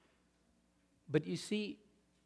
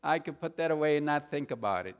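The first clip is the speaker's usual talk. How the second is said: mock calm; 3 semitones higher, 3 dB louder than usual. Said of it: "you could just calmly say".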